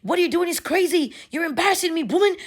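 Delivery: high, exasperated imitated Bahamian accent. Man tells his ex to go home, imitated Bahamian accent. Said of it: "he's talking in the Bahamian accent".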